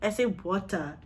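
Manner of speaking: "water" with a clear T, no final R; T pronounced in water. Shown as a demonstration. Woman defending her Kenyan accent, "water" with a hard T. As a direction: say "water" as wo-tah, crisp T. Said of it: "water is supposed to be water".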